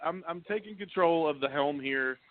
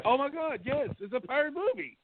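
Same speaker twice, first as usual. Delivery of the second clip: higher, fed-up insistence; for the third time, it's a pirate movie; exasperated; 9 semitones higher than usual. Real, not acted. Host answering the same question again, exasperated.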